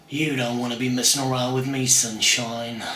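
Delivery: a lightly voiced menacing hardman; Bronson. Lightly voiced Bronson threatening someone, low and menacing. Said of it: "I'm gonna do an impersonation of Bronson".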